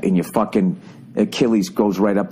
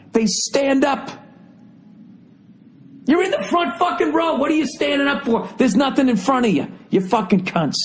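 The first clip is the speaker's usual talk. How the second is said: exasperated rant; 13 semitones higher than usual. Real, not acted. Ranting at front-row fans.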